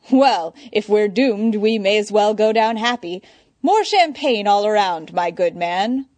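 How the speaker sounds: lounge on it like a fop; foppish. Acted. Bruce plays the fop.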